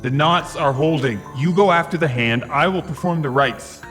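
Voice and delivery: loud, firm priest orders; commanding shout. A narrator's reading. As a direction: bark the orders loudly.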